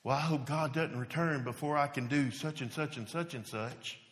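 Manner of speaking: a touch of petty hedging; immature believer. Retold or imitated. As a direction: mumble it like a selfish young Christian. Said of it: "here's one that's kinda immature".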